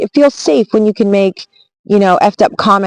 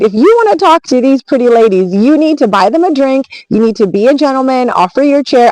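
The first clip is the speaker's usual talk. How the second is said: retold scolding, higher and comically intense; playful telling-off; 4 semitones higher than usual. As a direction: imitate her ripping into him, no meanness. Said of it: "she literally ripped into this guy".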